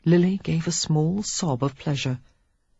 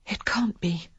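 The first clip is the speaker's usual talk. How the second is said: shocked breathless whisper; frightened whisper; 5 semitones higher, 5 dB quieter than usual. A narrator's reading. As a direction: whisper in dread. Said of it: "he heard her whisper".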